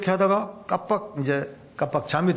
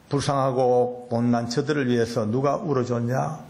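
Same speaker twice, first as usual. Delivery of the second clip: God's inner voice; 6 semitones lower than usual. Retold or imitated. God gently rebuking the preacher about hurting parents, low and tender. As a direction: lower the voice into God gently scolding. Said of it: "이런 느낌이 오는 거예요".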